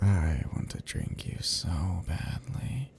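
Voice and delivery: slow, drawn-out longing, partly whispered; seductive craving. Acted. Vampire telling prey of thirst, seductive craving. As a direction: savor every word with hungry restraint.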